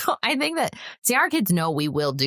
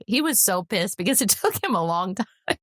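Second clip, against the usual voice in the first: laughing while telling; 6 semitones higher than usual. Real, not acted. Laughing while retelling son's anger.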